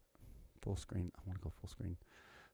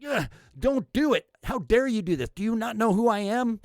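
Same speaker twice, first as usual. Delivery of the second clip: higher mock indignant scolding; mock angry scolding; 6 semitones higher than usual. Commentator imitating Biden's fake anger at reporters, higher pitch. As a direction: play the fake-mad finger-wagger. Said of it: "I get really mad like this".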